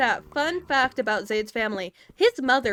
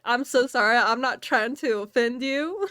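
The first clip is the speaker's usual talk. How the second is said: put-on Southern accent; 2 semitones higher than usual. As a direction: slip into a Southern accent to apologize. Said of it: "I'd start talking in the Southern voice".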